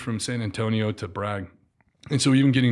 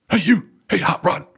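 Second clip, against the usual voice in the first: calling out across the lot; 9 semitones higher, 5 dB louder than usual. Retold or imitated. Sergeant major calling across pumps.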